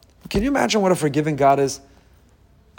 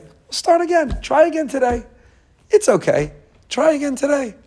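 put-on God reassures His child, voice lifted high; a high, gentle, reassuring lift; tender comfort; 12 semitones higher than usual. God tells His child tenderly, high reassuring voice.

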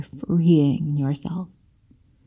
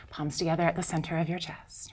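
soft spa whisper; 12 dB quieter, faster than usual. Real, not acted. Yoga cue whispered to class.

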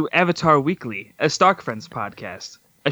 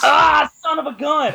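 frustrated shout; 13 semitones higher, 4 dB louder than usual. Real, not acted. Flubbed intro, exclaims.

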